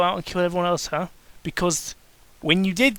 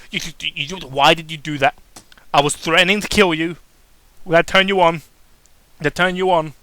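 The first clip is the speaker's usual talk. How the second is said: flustered; 7 dB louder than usual. Acted. Shocked pony stammers.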